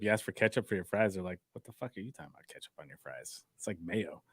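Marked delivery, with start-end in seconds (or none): 1.5-4.2 put-on European accent. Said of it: "But in a different accent".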